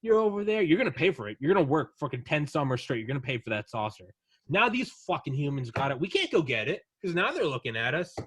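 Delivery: high, loud, put-on furious father; angry alien dad. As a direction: rant at your kids like an old-school dad. Alien dad rants at kids.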